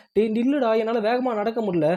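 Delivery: lightly acted call to wait up; calling after someone. Heroine to hero striding off ahead, mock calling out.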